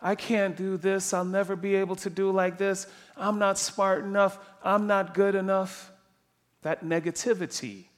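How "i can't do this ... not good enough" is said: monotone, defeated self-doubt; imitating a negative thinker in an even monotone; negative self-talk. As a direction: drone through a list of self-doubts. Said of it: "What does that sound like? ... That negativity".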